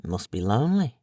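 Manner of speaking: soft, gentle murmur of pity; sympathetic murmur. A narrator's reading. Dave answering Barnes's boast, soft sympathetic murmur. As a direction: say it with quiet sympathy. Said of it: "Dave murmured sympathetically".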